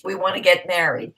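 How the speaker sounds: ordinary talk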